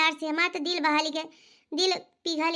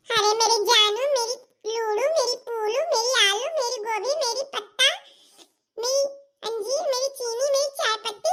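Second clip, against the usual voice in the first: lovingly; 4 semitones higher than usual. Shown as a demonstration. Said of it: "प्यार से बोले".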